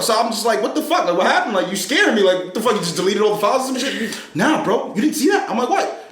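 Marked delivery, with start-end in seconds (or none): 0.6-4.2 alarmed disbelief. Retold or imitated. Retells scared reaction to Phil. 4.3-5.5 high, insistent retold question; amazed imitation. Imitating Phil on FaceTime, amazed disbelief. 5.7-6.1 one very high-pitched retold word; baffled. Retelling his answer to Phil, high-pitched bafflement.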